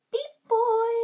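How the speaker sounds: censored insult. Shown as a demonstration. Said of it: "Can we say".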